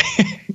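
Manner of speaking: soft, very high imitated laugh; Chase Reeves. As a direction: chuckle high in imitation of a friend. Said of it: "start laughing like him".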